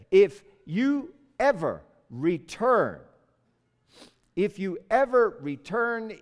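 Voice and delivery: slow, word-by-word defiance, loud; emphatic warning. Acted. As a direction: spell out the warning deliberately, then repeat it. Prophet defies the king.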